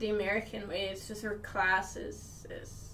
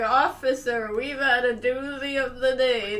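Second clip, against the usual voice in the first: hillbilly voice; 2 semitones higher, 6 dB louder than usual. Retold or imitated. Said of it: "Tucker and Dale versus Evil type of shit".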